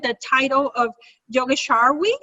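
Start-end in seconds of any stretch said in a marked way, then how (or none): 1.3-2.1 "Yogeshwarvi" attempted with an extra v near the end; tentative pronunciation. Real, not acted. Host reading out guest's honorary title, "Yogeshwarvi" said tentatively. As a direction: try "Yogeshwarvi" as an unsure reading of an unfamiliar title. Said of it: "Am I pronouncing this pr-, correctly?".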